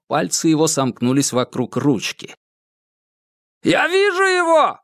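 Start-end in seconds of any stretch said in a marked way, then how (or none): 3.6-4.8 shouting. Acted. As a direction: call it out urgently. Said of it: "снова закричал охранник справа".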